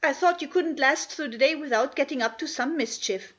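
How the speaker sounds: scandalised scolding; Martha, angry scolding. Acted. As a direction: tell the children off, indignant but not shouting. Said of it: "she was very angry indeed".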